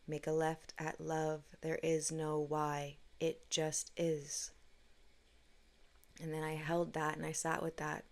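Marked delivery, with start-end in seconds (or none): 0.1-4.5 soft slow voice. Retold or imitated. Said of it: "soft voice".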